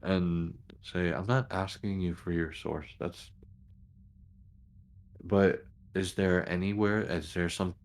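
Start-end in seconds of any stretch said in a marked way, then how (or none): 1.1-3.3 understated exasperation, trailing off; mildly exasperated clarification, fading at the end; a little exasperated. Acted. Officer to a reporter guarding her sources, a little exasperated. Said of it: "actually a little exasperated at that".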